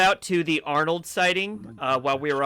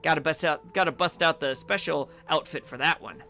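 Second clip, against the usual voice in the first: cheery elf snack vendor. Acted. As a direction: greet the stranger like a jolly festive elf.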